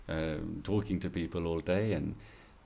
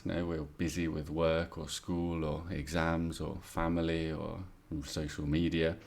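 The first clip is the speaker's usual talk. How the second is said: student monologue. Shown as a demonstration. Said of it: "here's what students do when they're gonna make this mistake".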